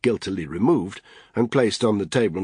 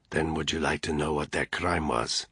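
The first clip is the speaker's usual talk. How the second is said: cold menace; 3 semitones lower, 5 dB quieter than usual. Acted. Augusto voiced low.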